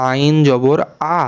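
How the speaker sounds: আ pressed from a tightened throat; আ as a pharyngeal ain sound; throat-squeezed ain. Shown as a demonstration. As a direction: squeeze the throat on আইন and long আ. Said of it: "গলা একটু চেপে".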